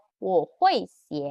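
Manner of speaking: "我会写" slow and clear; slow model answer. Shown as a demonstration. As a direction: model the reply. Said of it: "Dia bilang".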